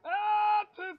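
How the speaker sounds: sudden loud high yelp. Real, not acted. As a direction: yelp it out in alarm. Enemy is an elite.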